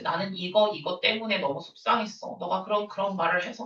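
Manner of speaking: calm, hurt explanation. Shown as a demonstration. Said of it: "뭐 이렇게 말해야지".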